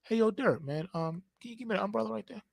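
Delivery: very soft, quick, casual ask; gentle polite request. Shown as a demonstration. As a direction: ask lightly, almost under the breath.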